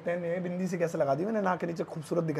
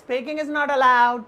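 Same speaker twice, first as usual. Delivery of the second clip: slow demo; 4 semitones higher, 5 dB louder, much slower than usual. Shown as a demonstration. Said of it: "बोलना मना है".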